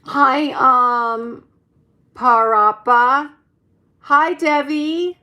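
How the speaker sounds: calling out names loudly; cheerful loud shout-outs; loud greetings. Real, not acted. Greeting chat viewers loudly.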